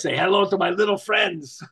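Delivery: a hint of the Scarface gangster, slowed on hello; lightly voiced Pacino, said for fun. Shown as a demonstration. Showing the client the slogan in a light Scarface voice. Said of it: "do it with the voice".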